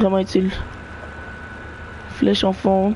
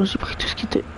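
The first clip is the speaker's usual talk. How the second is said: whispered; 7 dB quieter, faster than usual. Real, not acted. Whisper heard.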